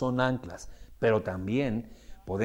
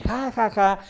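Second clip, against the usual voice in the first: high, mocking fake laugh; parents laughing; 9 semitones higher, 4 dB louder, slower than usual. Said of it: "Los papás se empiezan a reír".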